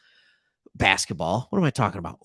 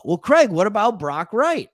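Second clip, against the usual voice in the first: higher, louder mock viewer interrupting; objecting viewer; 5 semitones higher, 5 dB louder than usual. Fan calling out Craig about A J Parker, mock indignant. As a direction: play a fan cutting in with a gotcha.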